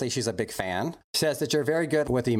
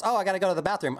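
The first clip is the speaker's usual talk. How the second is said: mock kid actor; 7 semitones higher, faster than usual. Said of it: "if somebody goes".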